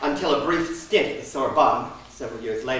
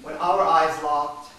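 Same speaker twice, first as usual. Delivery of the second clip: "When our eyes locked" stretched slowly and louder; slow savoured recall; 4 semitones higher, 7 dB louder, much slower than usual. A narrator's reading. Narrator reliving the moment the eyes locked, slow. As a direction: linger over every word, slowly.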